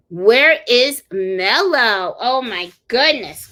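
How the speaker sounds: loud call across the room; calling the dog, drawn out. Real, not acted.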